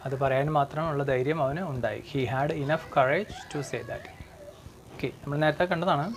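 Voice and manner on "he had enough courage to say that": slow model sentence. Shown as a demonstration. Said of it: "teacher reads model sentence".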